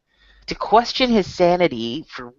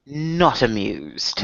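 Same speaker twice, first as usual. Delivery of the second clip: mock regal disdain; 4 semitones lower, much slower than usual. Echoing the royal verdict.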